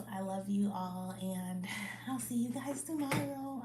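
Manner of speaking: winded, breathy sign-off; out of breath. Real, not acted. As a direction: talk while catching your breath. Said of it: "I'm out of breath".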